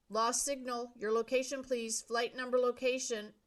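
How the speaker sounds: radio operator. A narrator's reading.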